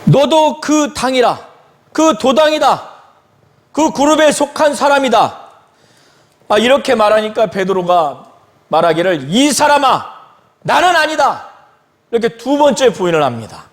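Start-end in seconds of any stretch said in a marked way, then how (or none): 0.0-5.5 higher-pitched, insistent accusing quote; acted accusation. Bystander accuses Peter of belonging to the group, insistently. 9.3-11.5 higher-pitched retold protest; emphatic denial. Peter answers his accuser, protesting firmly.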